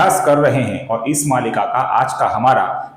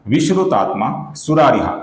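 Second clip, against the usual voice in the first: shloka recitation. Shown as a demonstration. Reciting the verse for viewers. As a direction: chant each name with care.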